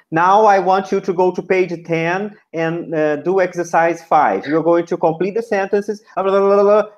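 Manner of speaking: wordy teacher running on without breaks; ungraded instructions. Shown as a demonstration. Teacher showing how not to instruct beginners, running on. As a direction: reel off instructions in one long string, trailing into blah-blah. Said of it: "nothing like".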